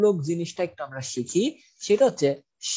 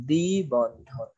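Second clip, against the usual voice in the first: দ্বিবন্ধন drawn out syllable by syllable; slow dictation; 4 semitones lower, much slower than usual. Shown as a demonstration. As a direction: spell out দ্বিবন্ধন very slowly as if dictating. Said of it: "এখানে আমরা একটু লিখে দেই".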